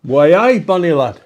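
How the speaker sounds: loud mock Geordie; hammed-up Newcastle accent.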